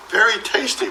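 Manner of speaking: high, pleased little dog voice. Acted. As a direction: savour it as the dog. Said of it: "Walter said to himself".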